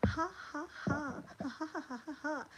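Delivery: laughing helplessly; real laughter. Real, not acted. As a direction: lose it in laughter. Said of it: "I'm dying".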